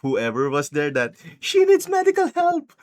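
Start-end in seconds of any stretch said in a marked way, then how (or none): 1.4-2.7 high-pitched mock-frantic appeal; hammed-up panicked plea; urgent plea. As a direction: imitate someone desperate for help, voice shooting up. Retold urgent plea to hospital staff.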